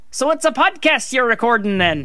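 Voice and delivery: understated Irish lilt; light put-on Irish accent meant as Scottish; Irish accent passed off as Scottish. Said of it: "do you want me to do an Irish accent".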